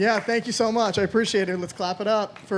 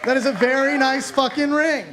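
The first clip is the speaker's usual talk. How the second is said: sarcastic admiration, a touch higher; mock awe; 4 semitones higher than usual. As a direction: gush over the ring with mock awe. Mock awe at wife's ring.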